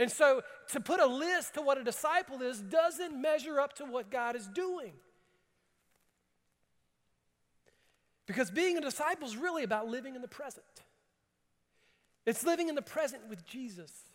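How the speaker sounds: eager, enthusiastic, very high-pitched preaching delivery. A preacher opens his sermon to the congregation, excited. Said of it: "As you can tell, I'm excited".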